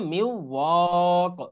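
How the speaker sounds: long "ওয়া", then a bare q on "ক"; stopping pronunciation. Shown as a demonstration. Teacher showing how one must stop, ending on bare "ক". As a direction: stop dead on "ক" without its vowel ending. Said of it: "এরকম থামতে হবে".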